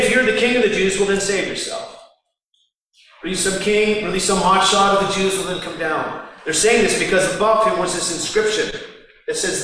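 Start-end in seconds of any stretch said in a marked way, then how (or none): 0.0-6.2 mocking. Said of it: "and they mocked him".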